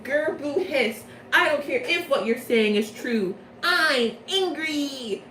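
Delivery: hammed-up growl of childish anger, the end drawn out; mock angry villain. Leona refusing to listen to Lilia, mock pouty anger. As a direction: pout and growl like a sulky villain. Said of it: "And Leona's like".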